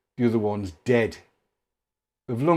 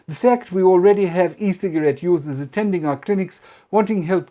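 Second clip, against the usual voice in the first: pompous official quote; 4 semitones higher than usual. Retold or imitated. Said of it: "And he says".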